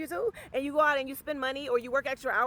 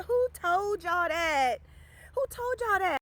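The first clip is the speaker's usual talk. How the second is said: first slow, then higher and sharper; sassy disbelief; incredulous; 8 semitones higher, slower than usual. Real, not acted. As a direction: demand it in disbelief. Repeated rhetorical question.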